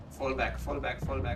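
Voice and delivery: urgent loud call to retreat; shouting orders over battle. Real, not acted. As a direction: bark the retreat order at the team.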